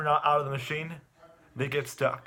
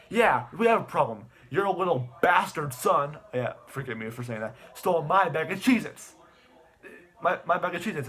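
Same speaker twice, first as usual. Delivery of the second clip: mock angry complaint; 3 semitones higher, 3 dB louder than usual. Cop complains loudly to mom.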